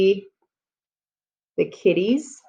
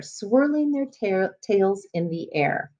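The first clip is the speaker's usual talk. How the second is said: slow evocative; 4 dB quieter, slower than usual. Shown as a demonstration. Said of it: "Does that give you an image".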